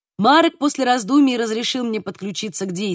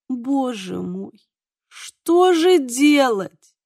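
groaning; 3 semitones higher, much slower than usual. A narrator's reading. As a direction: moan it out slowly, wringing your hands. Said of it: "застонал Михал".

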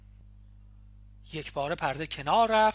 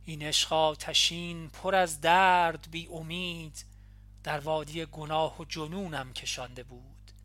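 measured, solemn reading of verse; reading a farewell poem aloud from a letter; poem recitation. A narrator's reading.

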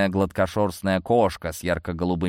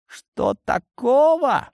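incredulous; 4 dB louder, much slower than usual. Acted. Cat echoes in disbelief.

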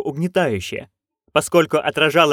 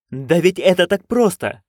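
higher, eager exclamation; exclaiming; 5 semitones higher than usual. Acted. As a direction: blurt it out eagerly. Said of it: "вскричала Маград". (восторженный возглас)

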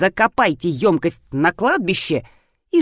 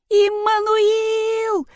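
long, very high, drawn-out call; much slower than usual. A narrator's reading. Rina calls out for the escaped cat, long and high. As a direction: call the lost cat, stretching the name. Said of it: "закричала Рина".

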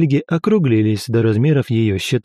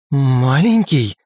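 slow growled word; much slower than usual. A narrator's reading. Lika growling at Velga for calling the god small, menacing. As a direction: drag out Маленький slowly, menacing. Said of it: "зарычала Лика".

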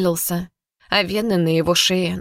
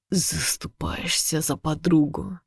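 slow, quiet sneer; soft taunt; 2 semitones lower, 6 dB quieter, slower than usual. Acted. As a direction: murmur it like a threat.

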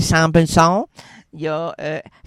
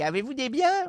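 ghost voice; 6 semitones higher, 8 dB quieter than usual. Acted. Spirit asks the question.

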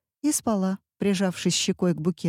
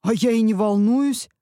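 denying nerves a bit louder; mild shout; 4 semitones higher, 5 dB louder than usual. A narrator's reading. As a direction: snap back, louder. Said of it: "заорал муж". (муж огрызается, громче)

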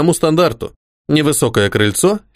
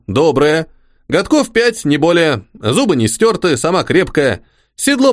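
simple soldier voice; 4 semitones higher than usual. Acted. The orderly Pakhom speaking.

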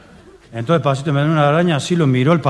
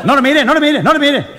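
put-on much higher, urgent kid's voice; anxious kid; 11 semitones higher, 4 dB louder than usual. Kid begging not to be looked at, high urgent voice. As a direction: plead like a flustered child.

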